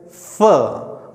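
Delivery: फ as English f, lips not closed, light air; soft f sound. Shown as a demonstration. Teacher demonstrates lip position to students, soft airy f for फ. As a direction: let a little air out on फ. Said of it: "दोनों ओंठ हल्के से मुड़ने चाहिए".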